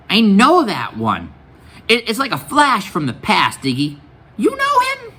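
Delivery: high-pitched exclamation of recognition; a woman suddenly recognizing someone; startled Loretta. A narrator's reading. Loretta voiced, startled at recognizing Max.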